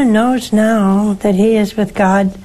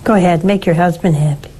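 normal talking voice

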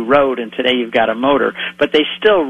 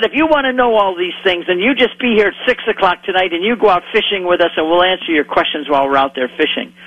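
put-on Hebrew accent; 4 semitones higher than usual. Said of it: "in very thick Hebrew accent".

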